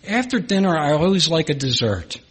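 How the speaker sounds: put-on a touch sweeter, gently recalling an old friend's words; sweetly. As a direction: say it fondly, like a dear old saint. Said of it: "he so sweetly said".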